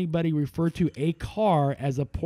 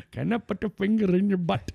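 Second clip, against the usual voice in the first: put-on Indian accent; 3 semitones higher than usual. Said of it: "Indian accent".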